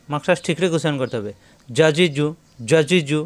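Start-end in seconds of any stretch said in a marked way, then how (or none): 1.7-3.2 short syllables in quick runs; teacher's brisk drill; without delay. Shown as a demonstration. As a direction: recite each trio as one unit. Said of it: "কোনো দেরি করা যাবে না".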